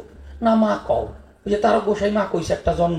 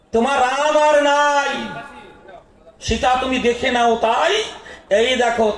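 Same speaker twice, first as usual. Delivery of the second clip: Ravana gloating; 2 semitones higher than usual. Acted. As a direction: gloat over the severed head, voice lifted. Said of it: "ওই যে রাবণ।". (গর্বিত রাবণের উঁচু গলা)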